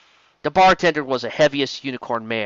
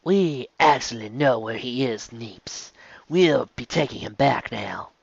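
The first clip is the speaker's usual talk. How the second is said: slower, softer corrected character take; 4 dB quieter, slower than usual. Acted. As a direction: redo the line in the right character's voice. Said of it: "completely wrong character".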